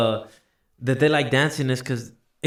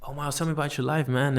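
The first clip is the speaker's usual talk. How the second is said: softer, easy and interested; calm and collected; 6 dB quieter than usual. Shown as a demonstration. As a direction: ask it cool and relaxed. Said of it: "I'm be like".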